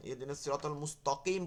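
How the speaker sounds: both t sounds thickened, tol and mustoqim; wrong double thick to. Shown as a demonstration. Teacher showing a common misreading, thick to in both words. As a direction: make Mustaqim's ta as thick as to. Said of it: "তল ওখানেও পড়তেছে".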